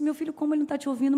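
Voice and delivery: mother taken aback by her son's words, quick and loud; startled mother. Retold or imitated. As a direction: fire it back in disbelief. Mother's startled reply retold.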